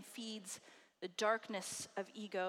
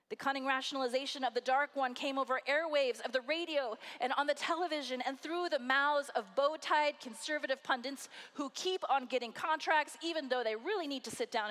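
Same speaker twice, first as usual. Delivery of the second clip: rising indignation; 3 semitones higher, 4 dB louder than usual. Real, not acted. Sermon building to indignant peak.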